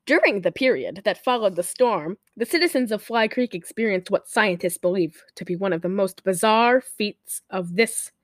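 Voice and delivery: measured movie-prologue reading; dramatic reading. Acted. Host reads the film's opening text to co-host, measured dramatic reading. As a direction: read it out like a film's opening card.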